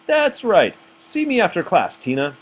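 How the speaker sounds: high, stern teacher command. A narrator's reading. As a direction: summon the pupil coldly. Teacher orders Tina.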